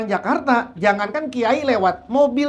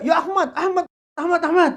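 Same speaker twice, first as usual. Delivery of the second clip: higher-pitched imitation of calling out in a row; mock quarrel; 4 semitones higher than usual. Preacher imitating Arab quarrel by first name, mock squabbling. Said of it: "Begitu mau ribut mah Ahmad gitu loh".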